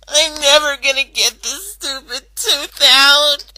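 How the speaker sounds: fed up and raising the voice at the tooth; frustrated outburst. Acted. Rainbow venting to her friends, frustrated loud outburst.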